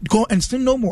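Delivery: imitating an American accent on a preacher's line; borrowed American accent, lightly hammed; mock American accent. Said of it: "You talking like that".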